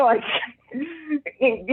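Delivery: ordinary talk, nothing marked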